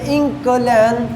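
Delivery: इंकलैन said as a Chinese word, syllable by syllable; Chinese pronunciation. Shown as a demonstration. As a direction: model इंकलैन for learners of Chinese. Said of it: "England को कहते हैं चाहे में". (इंकलैन, चीनी उच्चारण में)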